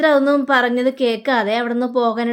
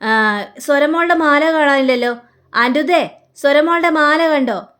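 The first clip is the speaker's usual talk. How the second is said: making a fuss; 3 semitones higher than usual. Acted. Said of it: "അവിടെ കിടന്ന് ഒച്ചപ്പാടുണ്ടാക്കണം".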